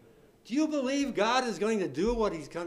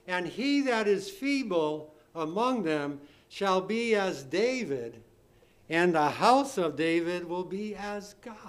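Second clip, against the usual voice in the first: declaimed scripture reading; 3 dB louder than usual. Real, not acted. Reads scripture aloud.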